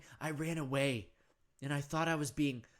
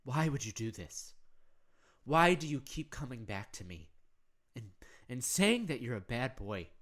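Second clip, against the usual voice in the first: loving mother; 2 semitones lower than usual. Acted. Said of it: "those loving eyes, and go".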